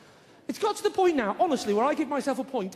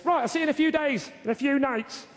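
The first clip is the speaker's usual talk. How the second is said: mock mate; 4 semitones higher, 3 dB louder than usual. Shown as a demonstration. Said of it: "you don't say to your mates".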